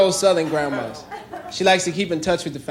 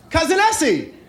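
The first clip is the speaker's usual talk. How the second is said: stranger at the door; 5 semitones higher than usual. Retold or imitated. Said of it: "It's like".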